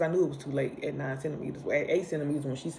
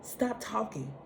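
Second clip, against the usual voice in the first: irritated inner snap; 4 semitones higher than usual. Retold or imitated. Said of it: "And I'm like".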